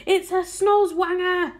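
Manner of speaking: high, loud, drawn-out yell; alarmed cry. A narrator's reading. Police chief identifying a monster, alarmed cry. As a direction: cry out the monster's name slowly and loudly. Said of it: "cried the chief of police".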